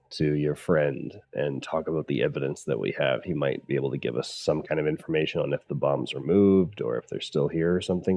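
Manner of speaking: soft, hushed plea to a friend; muttered question. Acted. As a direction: keep it low, just between us. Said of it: "Everett would mutter to Faye".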